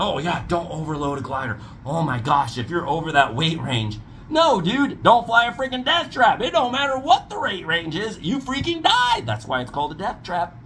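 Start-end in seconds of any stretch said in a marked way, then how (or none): 0.0-4.0 lightly voiced fretful rival; a hint of mocking whine; mocking Tucker Gott. Mocking rival pilot Tucker Gott, lightly voiced whine. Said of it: "Tucker Gott's going". 4.3-9.2 heated rebuttal. Real, not acted.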